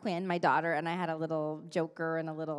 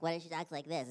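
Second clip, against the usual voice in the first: toned-down Mandy; 2 semitones lower, 4 dB quieter than usual. Shown as a demonstration. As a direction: rein the character in.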